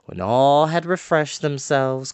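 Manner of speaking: ordinary delivery, nothing marked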